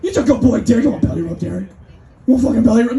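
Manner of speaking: high, loud cooing dog-owner voice; baby talk to a dog. Retold or imitated. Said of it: "look a dog in the eyes and say".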